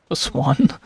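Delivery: Paswan as a question, ending in a clear N; questioning pronunciation. Real, not acted. Unsure player sounding out a place name, questioning Paswan. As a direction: try out Paswan with rising doubt, N sounded. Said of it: "How do you even pronounce that".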